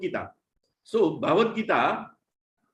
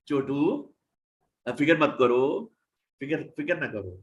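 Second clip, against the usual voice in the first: lovingly; 3 semitones lower, much faster than usual. Acted. Krishna comforting a frightened child, gentle and loving. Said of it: "प्यार से बोल रहे हैं".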